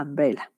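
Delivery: "Umbrella" opened on "ah", no y-glide; plain A vowel starting "Umbrella"; initial A sound. Shown as a demonstration. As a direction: say "Umbrella" as "ambrela". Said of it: "umbrella es una".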